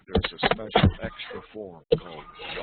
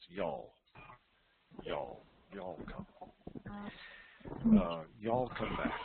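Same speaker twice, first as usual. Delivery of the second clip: drawled Southern quote; 5 dB quieter than usual. Shown as a demonstration. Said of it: "They say that in the South".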